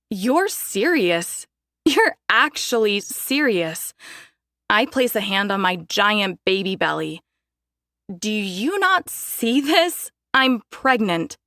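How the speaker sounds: can't believe her ears; disbelieving. Acted. Daphne in disbelief.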